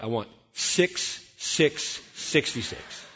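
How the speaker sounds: slow, chuckling through the numbers; laughing retold order. Telling the florist the card text, slow and laughing. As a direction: laugh while spelling out the card. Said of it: "What do you want on the card".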